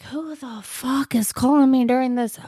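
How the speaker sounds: high-pitched irritated rant; mock-furious rant at the ringing phone; ranting outburst. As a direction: snap at the interruption, imitating the dad. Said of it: "And he's just ranting".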